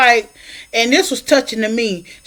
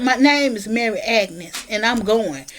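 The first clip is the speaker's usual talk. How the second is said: quiet resolve; 2 semitones lower, 5 dB quieter than usual. Retold or imitated. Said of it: "She said".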